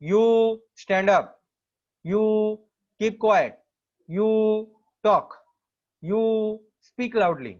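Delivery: a teacher playing bossy for the example; commanding orders. Shown as a demonstration. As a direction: order the class about, slow and loud. Teacher acts out giving orders.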